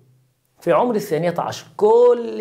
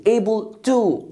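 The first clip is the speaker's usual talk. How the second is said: very slow Able to; teacher repeating slowly; slow model word; much slower than usual. Shown as a demonstration. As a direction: stretch it out.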